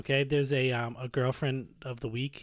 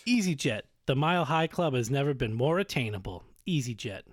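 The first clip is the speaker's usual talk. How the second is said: mock ad slogan. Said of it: "EasyJet slogans".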